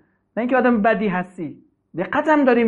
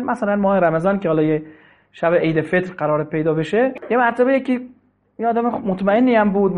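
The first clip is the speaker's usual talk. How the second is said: ordinary delivery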